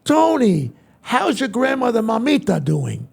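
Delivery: loud, high-pitched welcome; hearty greeting. Retold or imitated. President greeting the singer at the White House, hearty. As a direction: hail a celebrity like an old friend.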